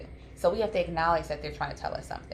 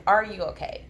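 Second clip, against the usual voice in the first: an open question, less high-pitched; genuinely asking; 3 semitones higher, 4 dB louder than usual. Shown as a demonstration. Parent checking on an upset child, genuinely asking. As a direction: check in as if you need the answer. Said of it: "I'm asking you".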